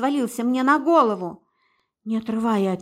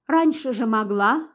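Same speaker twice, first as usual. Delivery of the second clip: plain reading voice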